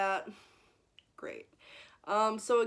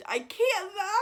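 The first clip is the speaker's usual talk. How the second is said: laughing through tears; 12 semitones higher, 5 dB louder than usual. Real, not acted. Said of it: "I just want to weep".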